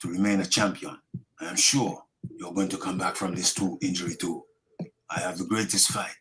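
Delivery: solemn tribute in a muddled put-on accent; Ugas accent. Reading a fighter's get-well message, botched accent. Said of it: "I thought I was doing Manny, then I thought I was doing Ugas".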